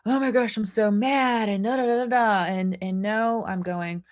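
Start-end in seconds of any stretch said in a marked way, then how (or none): 0.0-2.5 mock blame rant. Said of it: "energy and going".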